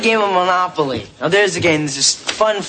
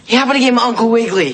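rushed plea; 6 semitones higher, 3 dB louder, much faster than usual. Acted. Desperate fast plea.

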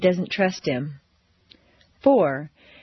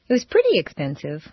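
"pretty" said fast and unstressed, slightly faster pace; a quicker take with no weight on "pretty"; quick, light pretty; 2 semitones lower, faster than usual. Shown as a demonstration. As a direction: rush through "pretty" so it means somewhat. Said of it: "How was it?".

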